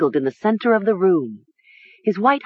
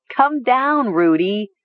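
high, urgent call; cried out; 5 semitones higher, slower than usual. A narrator's reading. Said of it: "Nessa cried".

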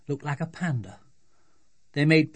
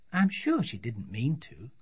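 lightly voiced, reasoning mum; placating mother; 3 dB quieter than usual. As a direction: gently excuse the other child as a parent. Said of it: "said her mother".

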